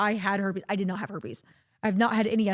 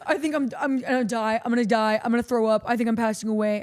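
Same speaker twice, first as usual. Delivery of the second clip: mock panic; 7 dB louder than usual. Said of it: "And he goes".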